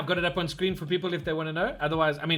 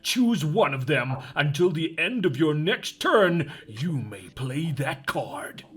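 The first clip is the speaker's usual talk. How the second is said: movie trailer voice; 3 semitones lower than usual. Pretend. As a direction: read the card like an epic trailer. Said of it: "I can do it in the movie trailer voice".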